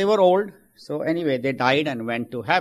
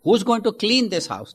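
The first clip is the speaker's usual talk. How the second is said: surprised question; 8 semitones higher, 4 dB louder than usual. Acted. Worried newcomer asks St. Peter.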